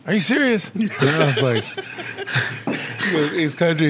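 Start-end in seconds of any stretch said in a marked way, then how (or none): 0.1-0.7 incredulous coworker. Retold or imitated.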